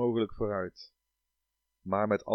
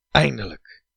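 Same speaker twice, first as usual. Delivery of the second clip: excited cry; 3 semitones higher, 6 dB louder than usual. Acted. Reaching the longed-for shore.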